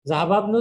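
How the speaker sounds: জাহাবাবনু run together as "zahababnu", loud and clear; no i before bnu in জাহাবাবনু; linking hamza dropped. Shown as a demonstration. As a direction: join zahaba straight onto bnu in জাহাবাবনু. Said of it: "হামজাতুল ওয়াসল".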